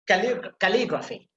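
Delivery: "calligraphy" with LI emphasized; stress on LI. Shown as a demonstration. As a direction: lean on the "li" of "calligraphy". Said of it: "you have to put emphasis there".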